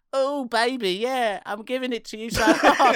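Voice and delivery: high, hammed-up slowed-down crisp moaning; comic high sexy croon; mock sexy voice. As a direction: pretend to be a slowed-down crisp, all innuendo. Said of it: "you could probably hear it going".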